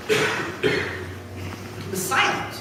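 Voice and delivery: slow hushed whisper. A narrator's reading. Narrator telling Jesus gave no reply, slow whisper. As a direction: let it fall to a slow whisper.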